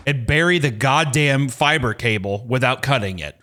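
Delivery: slow, emphatic rehearsed demand; mock heated. Customer rehearsing orders to the internet technician, mock heated. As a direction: lay down the law, getting worked up. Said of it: "I know I'm getting heated".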